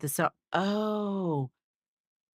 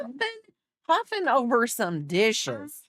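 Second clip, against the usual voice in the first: mock outrage; 5 semitones higher, slower than usual. Real, not acted. Mocking husband huffing over dishes.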